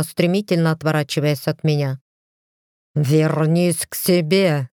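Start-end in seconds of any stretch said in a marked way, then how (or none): 2.9-4.7 slow, heavy order, only lightly growled; mild growled order. Acted. Lord orders his departing wife back, mild growl. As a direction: bark it at her back, understated. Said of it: "прорычал я ей в спину".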